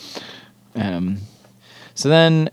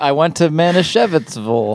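lightly voiced alien puppet, a bit higher; a hint of Alf; 4 semitones higher, 4 dB louder than usual. Shown as a demonstration. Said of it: "Now say it in the Alf voice".

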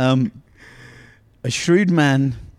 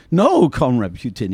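mild mock bark, louder; 5 dB louder than usual. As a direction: snap the no, lightly voiced. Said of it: "he barked".

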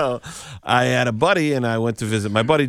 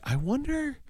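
soft, high wondering; small high-pitched musing; musing aloud; 7 dB quieter than usual. Retold or imitated. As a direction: lift it high and quiet, as if thinking to yourself. Retold sly wondering to himself.

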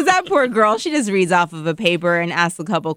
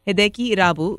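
names said with a Japanese accent on request; 3 semitones higher, faster than usual. Shown as a demonstration. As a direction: give Hideki Irabu a Japanese pronunciation, as asked. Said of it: "Say Hideki Irabu for us".

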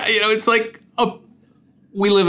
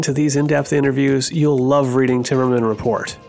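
ad read. Acted. Host reads sponsor ad over music.

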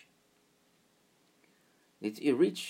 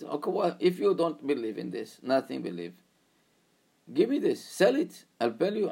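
high, louder urgent offer; eager bargaining student; 5 semitones higher, 4 dB louder than usual. Retold or imitated. Student presses the driver to sell, higher and urgent. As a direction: push the deal.

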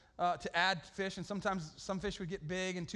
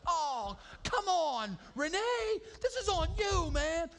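mock yell; 10 semitones higher, 3 dB louder, much slower than usual. Blaming friend while fishing.

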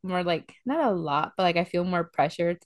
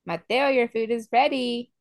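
sweet call; 4 semitones higher than usual. Retold or imitated. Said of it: "He's in the living room".

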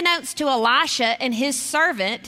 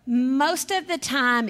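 laughing; slower than usual. Real, not acted. Laughing at tired parents' nights.

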